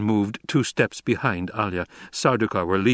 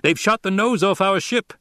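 alarmed call; 9 semitones higher, 3 dB louder than usual. Acted. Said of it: "someone called".

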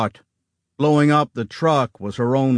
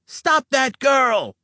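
sharp shout to halt her; slower than usual. A narrator's reading. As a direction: yell it out as an alarm. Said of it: "someone shouted".

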